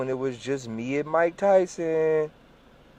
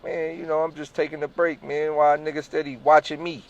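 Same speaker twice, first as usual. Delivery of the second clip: getting offensive; 5 semitones higher than usual. Retold or imitated. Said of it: "You start getting offensive".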